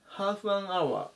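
half an hour run together as ハーファナワー; つなげて発音するhalf an hour; linked words. Shown as a demonstration. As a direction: blend half an hour smoothly. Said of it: "つながって".

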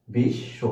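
বিশ্ব split as বিশ, pause, শ; two separate beats for বিশ্ব; syllable by syllable. Shown as a demonstration. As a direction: stop after বিশ, then finish বিশ্ব. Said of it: "এইখানে কিন্তু দুইটা".

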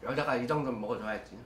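eating between words; chewing while talking. Real, not acted. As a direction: mouth partly full of food. Seen 2: Bites chicken at -2, then jaw and lips keep chewing while talking.

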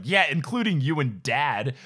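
lightly voiced sly comeback; sly dig. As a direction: butt in with a sly jab. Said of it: "Ginny said slyly".

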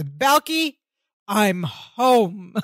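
mock-confident, booming announcement; deep confident voice. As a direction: puff it up, a hint of a deep manly voice. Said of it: "in a very deep, confident voice".

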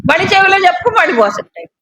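rising to a mocking shout. Real, not acted. Preacher scoffing at confession to the audience, mocking shout. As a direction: push it up, scoffing at the idea.

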